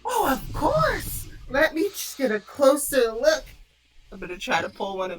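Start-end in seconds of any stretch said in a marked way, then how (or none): 0.0-3.4 mock innocent Cora.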